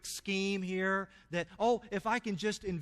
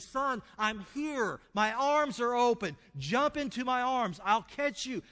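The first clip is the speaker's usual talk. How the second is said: a father calling up to his son, raised and higher; 5 semitones higher, 3 dB louder than usual. Acted. Father shouting to trapped son on roof, raised call. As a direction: call up through the smoke, arms open.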